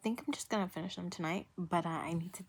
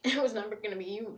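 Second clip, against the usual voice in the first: laughing it out, a touch louder and quicker; laughing taunt; 3 semitones higher, 4 dB louder, faster than usual. Real, not acted. Vlogger taunting a TV character, laughing. Laughing while repeating the jab.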